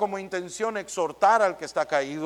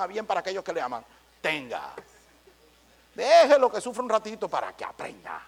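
mock harsh exhorter. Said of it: "¿qué va a decir?".

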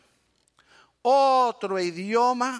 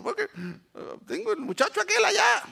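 put-on crying child; 11 semitones higher than usual. Crying boy answering father.

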